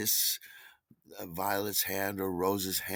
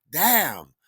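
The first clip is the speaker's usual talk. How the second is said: exasperated curse; 7 semitones higher, 8 dB louder than usual. Retold or imitated. Acted curse after slamming phone.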